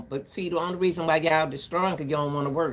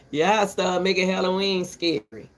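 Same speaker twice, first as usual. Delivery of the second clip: louder opening complaint; louder first take; 2 semitones higher, 3 dB louder than usual. Real, not acted. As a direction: say it out louder, pressing the point. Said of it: "repeats the line".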